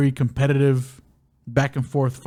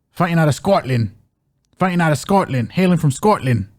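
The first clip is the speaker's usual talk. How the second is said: a light, hammed-up Scottish accent over announcer calls; mock Scottish accent; 3 dB louder than usual. Host jokingly introduces Paul Craig in a mock Scottish accent. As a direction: announce the Scottish fighter in a playful put-on Scottish accent. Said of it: "That was my Scottish accent".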